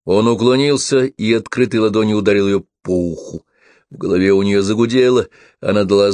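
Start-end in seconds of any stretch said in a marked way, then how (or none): none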